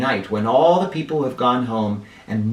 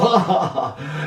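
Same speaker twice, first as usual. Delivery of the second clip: put-on old man chuckle. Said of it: "Old Fu chuckled".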